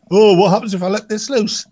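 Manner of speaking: mock a reckless teen hacker. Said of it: "somebody like that".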